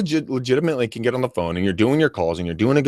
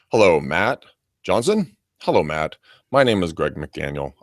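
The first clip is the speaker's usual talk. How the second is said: lower, monotone droning robocall read; drone caller; 3 semitones lower than usual. Shown as a demonstration. Telemarketer drones a canned script at a homeowner, monotone. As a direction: drone through it like a bored caller. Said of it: "or you're a drone".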